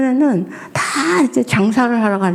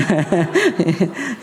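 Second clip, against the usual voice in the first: laugh; 4 semitones lower than usual. Real, not acted. Laughs at own joke.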